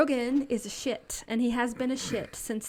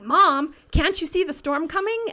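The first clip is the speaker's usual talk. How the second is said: put-on higher, loud child's plea; little kid voice; 6 semitones higher, 5 dB louder than usual. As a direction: sound like a small boy explaining. Voicing her four-year-old son.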